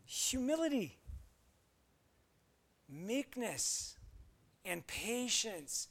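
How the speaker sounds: measured, solemn reading of the verses; scripture reading. Acted. Pastor reading Colossians to the congregation, solemn reading. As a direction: read the passage like a pulpit lesson.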